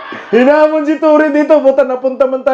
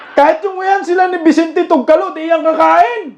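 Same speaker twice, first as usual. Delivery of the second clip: mocking; 5 semitones higher than usual. Real, not acted. Mocking politicians eating cheap rice.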